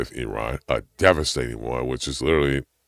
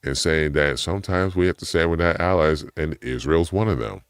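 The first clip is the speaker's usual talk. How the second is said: ordinary delivery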